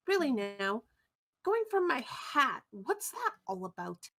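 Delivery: lightly voiced, mildly affronted witch; a hint of a miffed hat owner, swooping up then down; haughty Wisp. Game master voices Wisp, the hat's owner.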